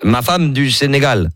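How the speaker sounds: put-on invented African accent. Prank caller telling Coralie his new wife comes, in a mock Senegalese accent. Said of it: "j'ai inventé un accent".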